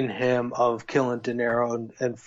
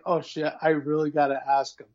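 panicky, rising higher; nervous character voice; 4 semitones higher than usual. Retold or imitated. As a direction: voice him as scared and trapped. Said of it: "he's like".

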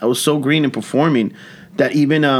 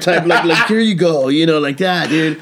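mock-heroic presenting, raised and loud; heroic Excelsior pose; 6 semitones higher, 3 dB louder than usual. Comic presenting the microphone to a singer, mock-heroic. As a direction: hand it over like a grand hero. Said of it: "standing like Excelsior type".

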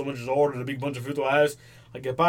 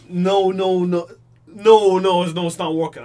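mock loud denial; 2 semitones higher, 7 dB louder than usual. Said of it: "You show me it and then I'm like".

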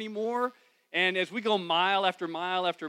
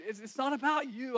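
higher, pressing reassurance; earnest insistence; 9 semitones higher than usual. Retold or imitated. Husband assuring his wife the problem is his, earnest insistence. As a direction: make her hear it's not her fault.

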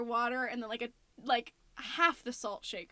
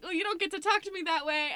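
mild mock yell; 5 semitones higher than usual. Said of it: "I started yelling at you".

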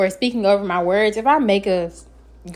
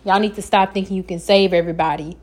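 fussing; 3 semitones lower than usual. Real, not acted. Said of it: "Yes, I'm fussing".

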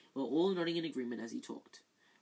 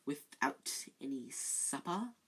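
silky Snape; 4 dB quieter, slower than usual. Acted. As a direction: purr it from the shadows. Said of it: "triumphant smile".

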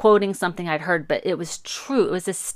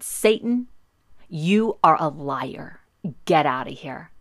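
retold yell; 3 dB louder than usual. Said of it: "And I yelled".

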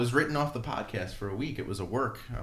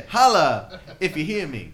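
loud high hammed-up wrestler holler; Scott Steiner shout; 7 semitones higher, 11 dB louder, slower than usual. Host hams up a wrestler catchphrase for the podcast, loud mock holler. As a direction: bellow it like a wrestling promo.

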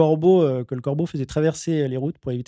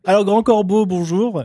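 host voice; 4 semitones higher, slower than usual. Acted. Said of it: "les deux voix sont vraiment incroyables".

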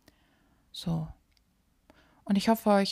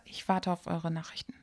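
whispering; 3 semitones lower, 10 dB quieter than usual. Real, not acted. Whispered sign-off.

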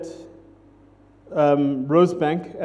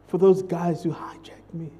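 whispered quote; 6 dB quieter than usual. Retold or imitated. Wife's tender quote.

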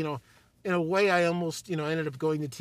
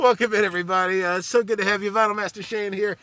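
radio DJ voice; 5 dB louder than usual. Pretend. DJ intro again.

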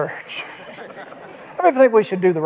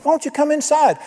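pleading father; 9 semitones higher than usual. Retold or imitated. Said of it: "he pleaded with him".

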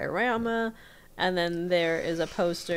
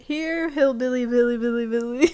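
mock hillbilly call, higher and louder; 6 semitones higher, 7 dB louder than usual. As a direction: holler for the hillbilly like calling a pet. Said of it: "calling out".

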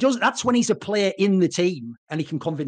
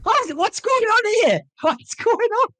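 much higher, stunned asking; exaggerated disbelief; 13 semitones higher than usual. Real, not acted. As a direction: act as if reality has broken. Disbelief at the matchup.

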